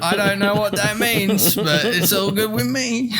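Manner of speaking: put-on kid voice. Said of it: "the kids in the audience are like".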